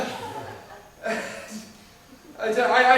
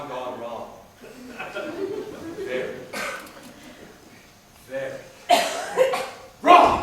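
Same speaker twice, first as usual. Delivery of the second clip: rising joking shout; 5 semitones lower, slower than usual. Real, not acted. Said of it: "building to a shout".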